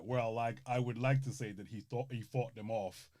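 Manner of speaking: a loose take on the calm, smooth film narrator; a low, unhurried hint of a film narrator; Morgan Freeman narration. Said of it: "it's Morgan Freeman's voice".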